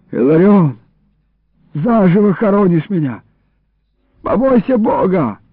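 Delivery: rising, protesting call; desperate plea. Acted. Iliko to Illarion while being buried, desperate plea. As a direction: appeal urgently from inside. Buried man pleads with his captor.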